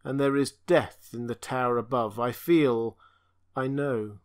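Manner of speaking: a tortured monster pleading in one unchanging tone; strange stammering voice. Acted. Creature speaks to Conan.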